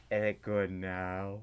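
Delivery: low, slow creepy voice. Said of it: "That was creepy".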